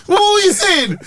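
high-pitched, laughing through it; laughing question, high voice. Real, not acted. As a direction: ask while still laughing. Laughing after joke.

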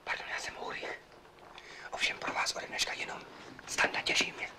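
soft unvoiced whisper while introducing himself. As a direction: whisper the introduction, hushed as in a ward. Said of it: "Tak proč vlastně šeptáme?".

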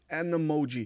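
"an Emoji" englisch gebunden; englisches AN vor Vokal. Shown as a demonstration. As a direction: das n von "an" zum E von "Emoji" ziehen. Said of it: "Und Emoji ist Vokal E". ("an Emoji" als englisches Beispiel)

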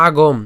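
"আগম" closed on a final m; ending on m. Shown as a demonstration. Teacher showing where to break, "আগম" stopped on m. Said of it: "এখানে আমরা ম পর্যন্ত উচ্চারণ করলাম".

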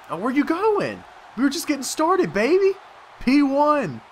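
high, crowing trash talk; excited taunting. Real, not acted. Player taunting an opponent who is getting away, excited. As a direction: crow it at the opponent.

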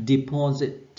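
Deposit said de-PO-sit, the second syllable strongest; stress on second syllable. Shown as a demonstration. Teacher modelling de-PO-sit for students to repeat. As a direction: hit PO in Deposit, keep de- and -sit light. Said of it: "trọng âm rơi vào tiết thứ hai".

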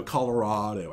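Colorado said the local way, with a flat first syllable and a short "rad"; native Colorado pronunciation. Shown as a demonstration. Streamer showing chat her Colorado way of saying it. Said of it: "I still say it like a native Colorado person".

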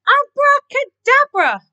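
high, loud, slow spell; magician's incantation. A narrator's reading. Keith waving his wand, casting a spell loudly. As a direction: proclaim it grandly, syllable by syllable.

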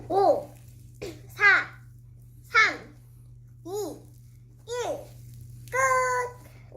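rising excited countdown, drawn-out final call; auctioneer countdown. Pretend. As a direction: count down the bids with mounting excitement.

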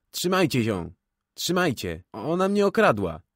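loud, high shout rising. A narrator's reading. An old man shouting that he was robbed. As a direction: yell for help, over and over. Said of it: "i krzyczy w kółko".

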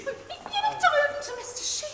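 amused, high laughing correction. Acted. Wife laughing at her drunk husband's mix-up, amused. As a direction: laugh as you set him straight.

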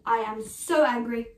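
firm "I am so angry" spoken out at normal voice; a plain-voiced demo of anger, stressing "so"; stated anger. Shown as a demonstration. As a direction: say "so angry" openly and firmly.

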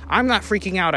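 high, loud defensive denial; panicked denial. Acted. Panicking brother denies freaking out, high and loud. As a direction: insist you're fine while clearly panicking.

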